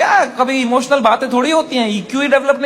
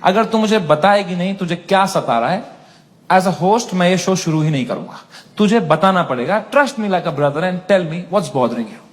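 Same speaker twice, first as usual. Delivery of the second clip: mock caring host; 5 semitones lower than usual. Host coaxing a tearful guest, lower mock earnest. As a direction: coax her gently like a big brother. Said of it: "मैं कहा".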